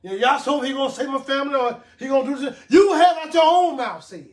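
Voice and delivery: preaching shout. Real, not acted. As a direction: call it out to the church. Preacher calling out to congregation.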